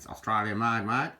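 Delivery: playful Australian twang on "Australian made, mate"; mock Australian accent. Joking to viewers about the bull roarer, mock Australian accent. Repeats phrase in Aussie accent.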